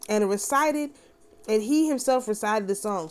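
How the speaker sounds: solemn, measured reading of a vision; scripture reading. Acted. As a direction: read it like a sacred text unfolding. Reads scripture aloud.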